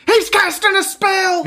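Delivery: mock alarm. Reacting to someone flipping you off, mock alarm. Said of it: "you're like".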